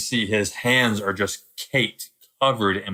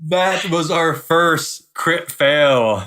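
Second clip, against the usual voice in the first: laughing; 8 semitones higher, 6 dB louder, much slower than usual. Real, not acted. Laughing at crit fail.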